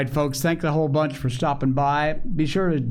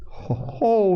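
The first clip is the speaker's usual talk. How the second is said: laughing; 9 semitones higher than usual. A narrator's reading. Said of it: "laughed Phronsie".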